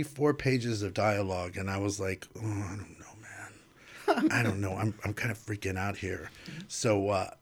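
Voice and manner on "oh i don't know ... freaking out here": panicky. Retold or imitated. Retold panic over dialogue.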